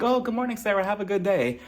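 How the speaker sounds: mock sweet Sarah. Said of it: "she'll make it into a whole different thing".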